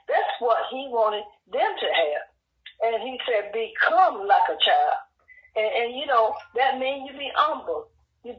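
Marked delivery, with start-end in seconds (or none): 3.5-5.0 slow line leaning hard on the end of "become"; stress on become. Retold or imitated. Jesus telling disciples how to be, slow stress on "become". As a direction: draw out "become", then let the rest fall. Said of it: "he put emphasis on the word become".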